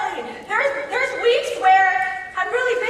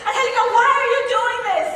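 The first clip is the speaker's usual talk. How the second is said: raised, quick self-reproach with a laugh; scolding herself; 6 semitones higher than usual. Retold or imitated. Mom in the car scolding herself, raised and fast. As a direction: scold yourself while driving. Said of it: "I start thinking, like".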